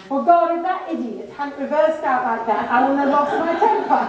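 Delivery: mock indignant self-justification; blame-shifting excuse. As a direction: plead your case by blaming someone else. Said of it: "Don't shift the blame".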